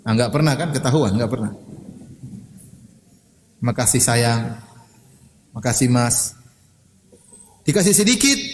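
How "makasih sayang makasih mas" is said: tender thanks. Shown as a demonstration. Models a wife thanking her husband.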